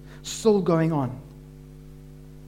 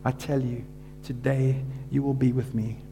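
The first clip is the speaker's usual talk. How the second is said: weak, breathless voice; 4 dB quieter than usual. Acted. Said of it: "barely able to breathe and speak".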